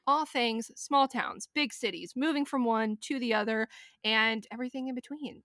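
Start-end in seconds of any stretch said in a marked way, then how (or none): 0.1-3.7 podcast intro. Acted. Show intro.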